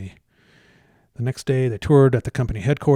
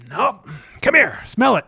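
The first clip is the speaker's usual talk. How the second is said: elated denial; 10 semitones higher, 7 dB louder, slower than usual. Retold or imitated. Husband denies drinking, elated.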